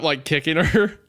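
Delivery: usual speaking voice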